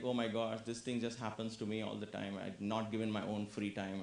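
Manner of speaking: low grumbled complaint; grumbling. Acted. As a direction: grumble it low, under your voice. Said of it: "He was grumbling".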